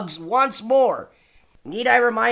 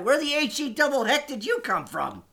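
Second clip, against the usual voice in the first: put-on old prospector; 3 semitones higher than usual. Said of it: "swearing like you're a prospector from a nineteen fifties Western".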